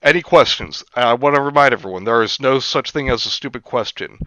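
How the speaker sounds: lightly voiced lecturing professor; a hint of a pompous lecturer; imitated professor. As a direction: professor inviting questions, mildly mocked. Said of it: "some professor goes".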